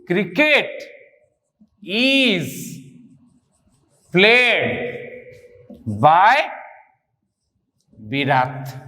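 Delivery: each word held alone between long pauses; word-by-word dictation. Real, not acted. Teacher writing the passive answer first, word-by-word dictation. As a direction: spell out the sentence slowly, word by word.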